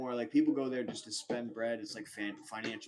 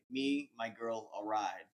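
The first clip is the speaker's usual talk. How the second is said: broken English; 2 semitones lower, slower than usual. Retold or imitated. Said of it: "like, broken English".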